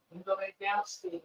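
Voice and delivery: quiet, discreet retold instruction; hushed dismissal. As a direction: softly send them away, under the breath. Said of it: "like that".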